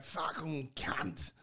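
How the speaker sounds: drawn-out bad London accent; very slow, put-on British swearing; abysmal British accent. Shown as a demonstration. Guest demonstrating his one bad accent, hammed-up British. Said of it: "you should do the accent".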